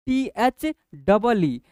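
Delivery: slow emphatic spelling. Shown as a demonstration. Teacher spelling T H double E slowly for children, loud and deliberate. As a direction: drag out each letter of T H double E.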